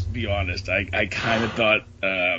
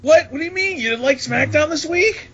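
surprised. Pretend. Mock shock at a friend.

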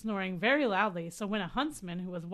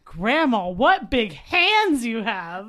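building worry; 9 dB louder, much slower than usual. Retold or imitated. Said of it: "the iconic lines".

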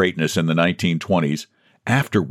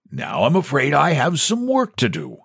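higher, smooth purring dismissal; 7 semitones higher than usual. A narrator's reading. President dismissing John, purring. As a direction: purr it out, politely final. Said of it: "The president rose and purred".

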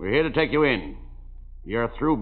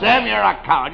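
laughing, higher taunt; 7 semitones higher, 5 dB louder than usual. Acted. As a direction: still laughing as you tease.

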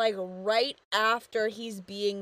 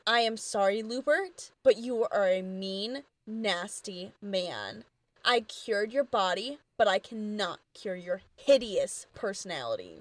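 measured, composed put-down; calm rebuke; 2 semitones lower than usual. Retold or imitated. Miss B to Lubert, calmly telling him off. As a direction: deliver it calmly, pausing between phrases. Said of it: "Miss B calmly walks up".

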